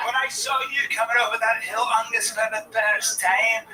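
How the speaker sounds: swooning Scottish woman. Retold or imitated.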